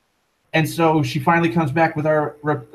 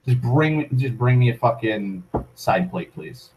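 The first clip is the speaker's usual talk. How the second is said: flat repeat. Retold or imitated. Repeating the demand to the waitress, flat and trailing off. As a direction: let it sink, deadpan and fading.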